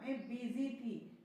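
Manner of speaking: slow, careful model sentence; slow demo. Shown as a demonstration. Teacher slowly models a sentence for beginners, slow careful delivery. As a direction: spell it out slowly for learners. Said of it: "बिजी पढ़ना".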